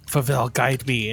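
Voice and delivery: heroic invocation. Pretend. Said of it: "to be all like".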